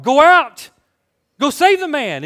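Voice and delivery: high, loud urgent shout; imitated crowd yelling. Beach crowd urging the lifeguard to save him, acted yelling. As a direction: holler it out toward the water. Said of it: "yelling at the lifeguard".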